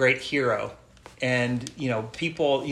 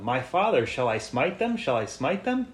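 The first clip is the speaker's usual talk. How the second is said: acted excitement. King of Israel asks Elisha about captured enemies, with acted excitement. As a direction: read it as a mildly excited king asking permission. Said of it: "He's excited".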